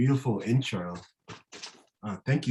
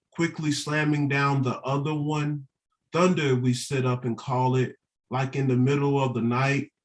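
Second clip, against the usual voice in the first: poetry reading; 3 semitones higher than usual. Acted. Reads their poem aloud.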